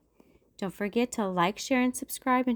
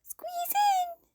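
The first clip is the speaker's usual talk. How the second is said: whisper. Acted. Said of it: "said Mom".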